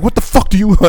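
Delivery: high-pitched retold outburst; indignant quote, pitch jumping up; angry challenge. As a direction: re-enact cussing someone out. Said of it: "I got so angry".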